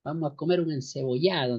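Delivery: light imitation of a coastal Ecuadorian accent; a half-hearted try at sounding costeño from the Ecuadorian coast. Teacher imitates a coastal Ecuadorian brother, light costeño accent. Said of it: "voy a tratar de imitar".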